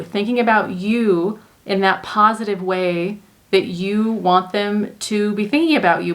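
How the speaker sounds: ordinary delivery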